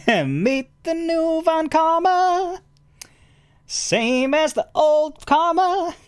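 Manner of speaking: playful fake German accent; mock German accent. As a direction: ham up a German accent for the villain's entrance. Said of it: "play a believable character with a German accent".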